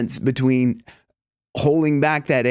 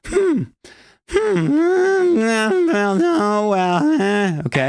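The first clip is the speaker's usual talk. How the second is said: much higher hums easing into speech; nasal hum demo; 7 semitones higher, much slower than usual. Shown as a demonstration. Coach demonstrating nasal resonance. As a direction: hum high through the nose, then settle. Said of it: "That's pushing it through your nose".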